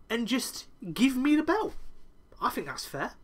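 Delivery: a hint of a smug, scheming wrestler; slowed, smug mock plea to the crowd; smug Adam Cole impression. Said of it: "Cole goes on".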